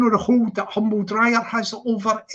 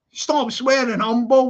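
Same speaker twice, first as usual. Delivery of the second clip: higher-pitched demo of putting your foot down; firm telling-off; 3 semitones higher, 3 dB louder than usual. Shown as a demonstration. Streamer showing how Expo should have told Humble, firm telling-off. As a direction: stamp your authority on it. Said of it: "like that, like you should do".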